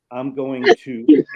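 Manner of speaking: choking on a sip of water; water down the wrong way; coughing up water. Real, not acted. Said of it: "just some water went down the wrong way".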